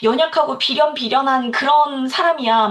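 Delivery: 살짝 꾸민 비련의 여주인공 말투; 연약한 척 가볍게 흉내 내듯; tragic heroine act. Pretend. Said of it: "비련의 여주인공 놀이를 한 거지". (스스로를 가스라이팅하며 연약한 척 비련의 여주인공 흉내)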